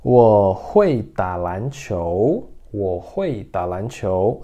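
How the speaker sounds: slow, careful Mandarin for repeating; slow pronunciation model for learners; slow pronunciation demo. Shown as a demonstration. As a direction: model each syllable slowly. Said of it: "Então, pronúncia".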